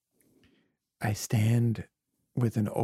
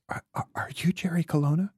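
tender; 7 semitones higher, faster than usual. Retold or imitated. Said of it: "very tenderly says".

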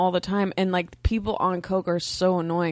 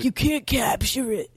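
slow, higher mock complaint; mock indignant listeners; 4 semitones higher, slower than usual. Co-host imitating furious Philly listeners, drawn-out mock indignation. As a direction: stretch it out like an outraged local. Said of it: "They're like".

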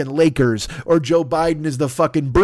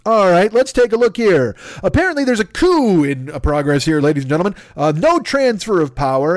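mock news anchor. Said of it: "I have to be like".

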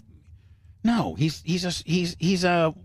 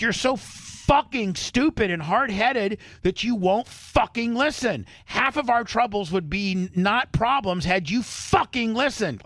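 retold yelling; 6 semitones higher than usual. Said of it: "he's yelling at me".

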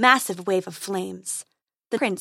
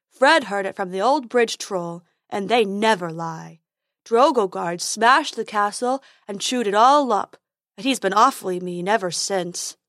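silly unicorn voice; 3 dB louder than usual. Acted.

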